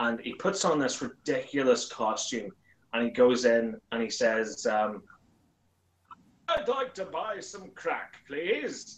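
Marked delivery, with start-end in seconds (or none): 6.5-9.0 put-on TV announcer voice, higher and quieter. Acting out Santa in a drug den sketch idea: Santa in Peter Dickson voice. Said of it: "That's the voice I decided to use for Santa Claus".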